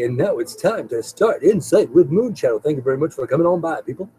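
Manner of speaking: smooth radio announcer, lightly done. Shown as a demonstration. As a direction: roll it out like a late-night DJ. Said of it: "That's a little Mister Radio voice".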